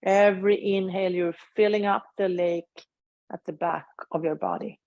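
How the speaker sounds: unhurried guiding voice with long pauses; measured meditation-teacher delivery; guided meditation. Acted. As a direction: lead them gently through a body scan, leaving space after each phrase. Leads a meditation.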